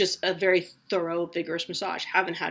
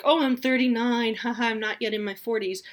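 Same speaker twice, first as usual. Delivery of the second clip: mock coy age liar; 4 semitones higher, 4 dB louder than usual. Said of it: "be like".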